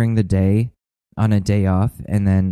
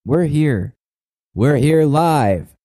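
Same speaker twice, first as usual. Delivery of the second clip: personified anxiety voice; 4 semitones higher than usual. Retold or imitated. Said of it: "be like".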